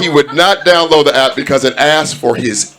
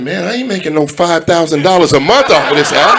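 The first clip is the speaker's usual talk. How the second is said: laughing rant; 4 semitones higher than usual. Retold or imitated.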